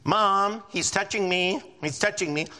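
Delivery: whining to mom from the back seat; whiny tattling little sibling. Retold or imitated. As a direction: tattle on your brother, whiny.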